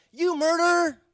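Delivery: high, loud accusing shout; angry yell. Retold or imitated. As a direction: yell it out at the speaker on stage. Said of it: "and yells".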